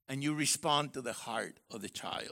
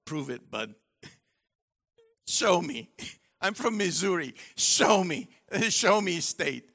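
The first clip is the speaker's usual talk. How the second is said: challenging wife; 4 dB louder than usual. Pretend. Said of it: "She should follow that with".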